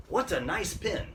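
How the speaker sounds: overdone admiration on "what a nice"; over-strong exclamation. Shown as a demonstration. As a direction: gush emphatically over "what a nice pin". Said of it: "really strong".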